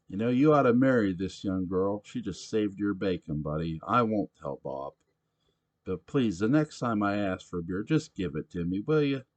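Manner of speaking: put-on loud, high rowdy drunk voice; a belligerent barfly demanding his beer; drunk pushy patron. Sam lecturing Simon.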